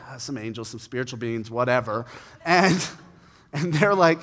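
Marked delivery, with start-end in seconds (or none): 0.1-2.0 unbothered shrug. Retold or imitated. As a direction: brush the angels off like it's nothing. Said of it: "she's like".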